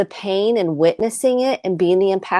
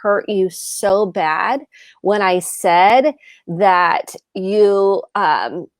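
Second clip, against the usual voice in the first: sincere apology; slower than usual. Shown as a demonstration. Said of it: "acknowledge and listen to their pain".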